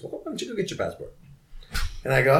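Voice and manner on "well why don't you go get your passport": mocking detective voice. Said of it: "he's like".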